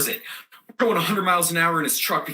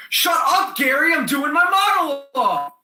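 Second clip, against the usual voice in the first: high, loud exasperated outburst; angry yell; 8 semitones higher, 5 dB louder than usual. Acted. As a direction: yell at a pest who keeps interrupting. Yells at interrupting Gary mid-monologue.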